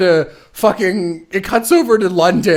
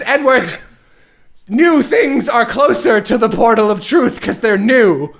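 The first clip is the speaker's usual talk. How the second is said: much higher, louder, prissy villain voice; mock villain; 6 semitones higher, 3 dB louder than usual. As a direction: ham up a silly villainess. Villain Dante explaining nonsense.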